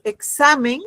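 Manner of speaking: "examen" with a clear beat on "xa"; stress on SA. Shown as a demonstration. Teacher comparing singular with plural, "examen" stressed on "xa". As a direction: punch the second syllable, "xa", in "examen". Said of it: "fíjense el golpe de voz".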